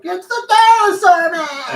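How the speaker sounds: high, loud drawn-out cry; dinosaur man voice. Acted. Man spotting Sam Neill in any film, high loud shout. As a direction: belt it out high and stretched. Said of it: "You doing that voice?".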